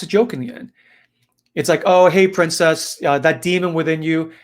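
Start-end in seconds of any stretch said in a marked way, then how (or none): 1.8-4.3 put-on louder, higher, breezy hello to an old acquaintance; playful and upbeat; jovial greeting. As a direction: greet the princess like an old pal. Exorcist jovially greets the possessed princess.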